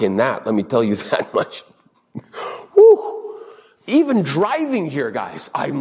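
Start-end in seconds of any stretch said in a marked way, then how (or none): 2.7-3.4 short high-pitched "woo"; loud whoop. Real, not acted. Exclaims after admitting impatience.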